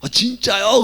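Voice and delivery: put-on high, loud delighted little boy; excited child. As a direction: sound thrilled like a child. Son delighted by father's answer. (신난 아이의 높고 큰 목소리)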